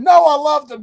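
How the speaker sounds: excited. Retold or imitated. Punchline reply to dad.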